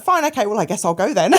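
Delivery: laughing acceptance. Real, not acted. Laughing agreeing to hospital.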